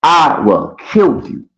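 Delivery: slow, deliberate menacing threat. Retold or imitated. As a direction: say it slowly, like you mean it. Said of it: "This nigga told me".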